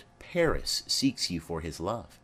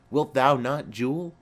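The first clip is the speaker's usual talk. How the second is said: a touch of the teasing husband, higher and louder; merry husband; 4 semitones higher, 4 dB louder than usual. Retold or imitated. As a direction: playfully repeat the joke to the child. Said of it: "quoth he".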